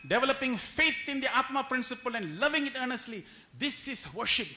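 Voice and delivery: emphatic quote. Acted. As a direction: declaim the scripture.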